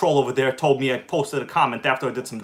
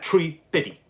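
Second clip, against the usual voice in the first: quoted line delivery; 3 semitones higher than usual. Shown as a demonstration. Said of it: "Okay, exactly like that".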